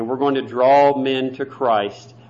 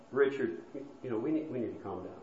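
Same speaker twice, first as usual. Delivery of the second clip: soft calming answer; 11 dB quieter, faster than usual. Retold or imitated. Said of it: "A soft answer".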